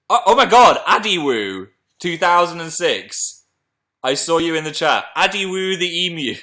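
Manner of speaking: high, loud "oh my god" into a name; excited discovery. Real, not acted. Host spotting a viewer in chat, excited discovery. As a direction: gush as you spot someone.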